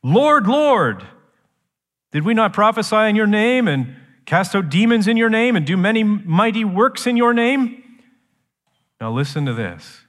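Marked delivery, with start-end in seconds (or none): 0.0-7.8 high, urgent protesting appeal; insistent pleaders. Acted. Rejected followers appealing to the Lord on that day, insistent. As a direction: plead your case, pitched up. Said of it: "they're still talking".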